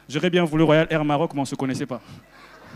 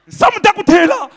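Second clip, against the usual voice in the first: mock disgust; 13 semitones higher, 8 dB louder than usual. Exasperated comic complaint.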